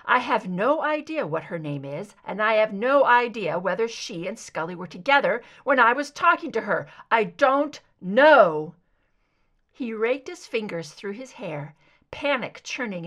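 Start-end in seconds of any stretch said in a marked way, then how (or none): 0.1-8.8 panicked. Acted. Mulder's panic rising.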